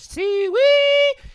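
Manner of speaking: high loud hog call; pig call. Retold or imitated. Lady calling her pig out of the yard, high hog call. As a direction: holler it like calling a pig home. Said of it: "this lady goes".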